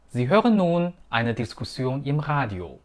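breaks after "nun" and after "Diskussion"; group it as "Sie hören nun", "eine Diskussion", "im Radio"; sentence-rhythm demo. Shown as a demonstration. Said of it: "这句话顿挫的地方".

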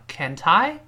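can't I run together as "can-tie"; linked can't I. Shown as a demonstration. Teacher showing linking, can't I joined as "can-tie". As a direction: carry the t of can't into I. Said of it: "自然形成了连读现象".

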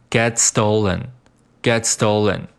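"get stolen" run together, t flowing into s; linked words. Shown as a demonstration. Teacher drilling liaison, "get stolen" said as one unit. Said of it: "get和stolen连读".

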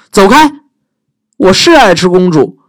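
high, loud dragon voice; grumpy dragon, get lost; dragon shooing her away. Acted.

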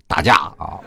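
usual speaking voice

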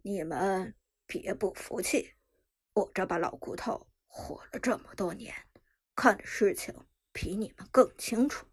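low, firm grandfather voice; stern old man. Acted. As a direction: lay down the law as elder. Grandfather lecturing the family.

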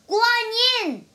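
high, loud startled cry. A narrator's reading. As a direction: call out the name as the shocked bear. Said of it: "the bear cried".

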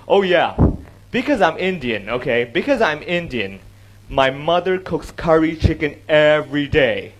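slow, drawn-out sarcasm; sarcastic. Shown as a demonstration. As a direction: spell it out with mock sincerity. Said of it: "I'm being sarcastic".

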